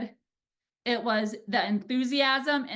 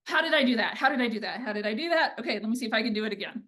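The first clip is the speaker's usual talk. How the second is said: eager self-talk; much faster than usual. Retold or imitated. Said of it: "I was like".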